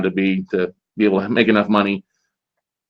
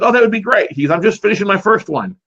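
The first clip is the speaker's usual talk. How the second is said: higher-pitched, eager retold reply; pleased acceptance; 9 semitones higher than usual. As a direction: lightly act out a delighted yes. Retold friendly acceptance of drink offer.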